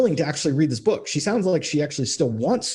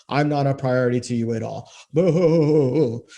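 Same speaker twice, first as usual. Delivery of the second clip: mock whining. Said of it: "whining like a little bitch".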